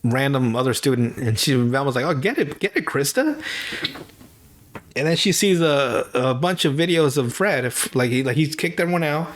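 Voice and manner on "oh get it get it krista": teasing cheer. Retold or imitated. Voices Velma cheering on Krista.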